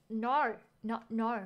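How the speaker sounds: tentative, imperfect Australian accent; attempted Australian accent. Shown as a demonstration. Streamer trying an Australian accent for a viewer, Australian "no". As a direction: have a go at an Australian "no". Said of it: "say no in an Australian accent".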